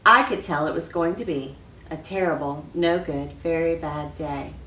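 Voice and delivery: reading a picture book aloud to the class; expressive read-aloud for children; story reading. Acted. Teacher reads story aloud.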